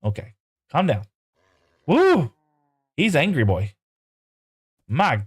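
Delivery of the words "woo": high, loud cheer of delight; real joyful woo; excited whoop. Real, not acted. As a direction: whoop at the speed. Cheering fast horse.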